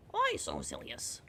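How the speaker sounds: low, slow menacing villain voice; Joker impression. Streamer quoting a villain to chat, low and slow. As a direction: drag it out, deep and sinister.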